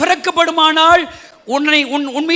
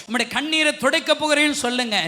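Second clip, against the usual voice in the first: usual speaking voice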